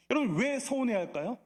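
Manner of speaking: ordinary talk, nothing marked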